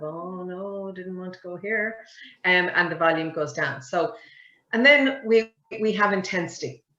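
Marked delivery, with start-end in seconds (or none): 0.0-2.0 unsure, dropping much softer; voice fading out. Retold or imitated. Speaker losing confidence mid-sentence, softer. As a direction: let it shrink as confidence goes. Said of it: "it's kind of".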